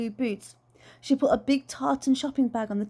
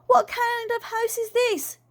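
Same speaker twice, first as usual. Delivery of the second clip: dismayed; 11 semitones higher than usual. Acted. Aunt dismayed.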